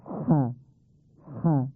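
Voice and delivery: ح rasped from the throat, like clearing it. Shown as a demonstration. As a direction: push ح out as if clearing your throat. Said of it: "مثل صدای گلو صاف کردن". (ح مثل صاف کردن گلو)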